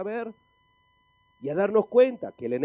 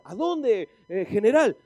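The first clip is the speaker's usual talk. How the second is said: higher-pitched mock soldier's question; puzzled soldier; 4 semitones higher, 5 dB louder, slower than usual. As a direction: lightly play a baffled recruit questioning orders. Soldier questioning the absurd order.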